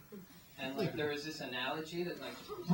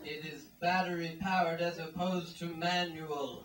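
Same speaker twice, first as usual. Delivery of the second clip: commercial pitch; 2 semitones higher, 3 dB louder than usual. Retold or imitated. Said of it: "As the commercial said".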